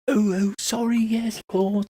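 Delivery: lightly voiced apologetic matron, high; a hint of a flustered matron; matronly heron. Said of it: "She goes".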